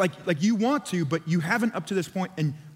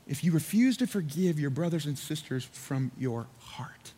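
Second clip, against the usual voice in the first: hushed, solemn; 3 semitones lower, 4 dB quieter than usual. Real, not acted. Solemn repeat of the key verse.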